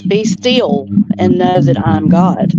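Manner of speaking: slow, measured scripture quote with weight on "still". Retold or imitated. Quoting the verse to her friend, slow measured reading. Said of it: "the word says".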